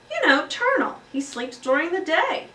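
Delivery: high, loud schoolgirl voice; eager child. Acted. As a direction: explain it like a keen little girl. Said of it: "said Heidi".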